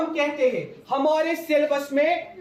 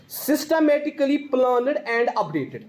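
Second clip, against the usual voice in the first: slow dictation; much slower than usual. Shown as a demonstration. Teacher dictating definition.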